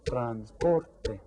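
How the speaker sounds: "Transporte" in beats, POR leaned on; stress on second syllable. Shown as a demonstration. Teacher asks which is stressed, POR brought out in "Transporte". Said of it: "Which one is stressed?".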